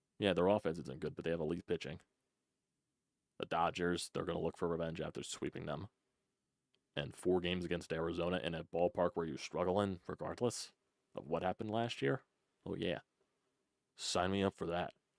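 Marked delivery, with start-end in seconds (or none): 12.7-14.9 mocking, sarcastic, eager tone. Reacting to a tough upcoming schedule of games: sarcastic.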